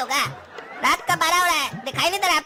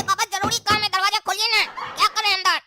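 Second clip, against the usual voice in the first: higher-pitched pleading through a door; insistent pleading; 3 semitones higher than usual. Acted. Son begging father to open the locked door, insistent pleading. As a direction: pester dad to open up.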